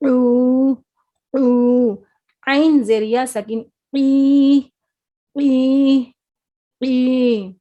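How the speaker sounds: throat sound drill with rising force; ain from the throat. Shown as a demonstration. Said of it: "اس میں عین کی آواز آئے گی".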